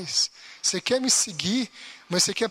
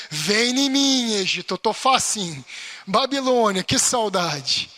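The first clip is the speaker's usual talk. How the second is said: mock longing, louder and slow on que saudade; jeito engraçado; 4 dB louder, slower than usual. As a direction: ham up a believer missing the world. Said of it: "Eu tô falando desse jeito engraçado". (saudade exagerada e cômica, mais alta e lenta)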